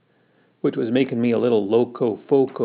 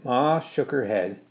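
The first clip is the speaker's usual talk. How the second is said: ordinary delivery, nothing marked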